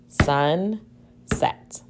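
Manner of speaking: whispered Sunset, breath only. Shown as a demonstration. Teacher whispering the word to students, breath only.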